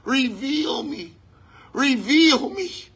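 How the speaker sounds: a hint of God pleading, slowed; slow, yearning plea as God; lightly voiced divine plea, drawn out. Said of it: "he's pleading through you".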